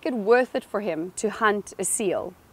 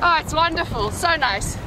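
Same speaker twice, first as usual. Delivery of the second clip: delighted; 6 semitones higher than usual. Real, not acted. Just out of cold water.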